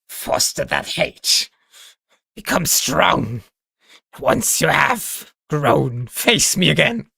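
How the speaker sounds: slow, half-whispered villain taunt; lightly voiced menacing villain; villain speech. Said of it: "like, a villain speech".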